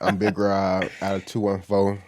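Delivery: put-on voice for a self-introduction; changed voice. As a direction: introduce yourself in a slightly put-on voice. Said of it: "Why you had to change your voice?".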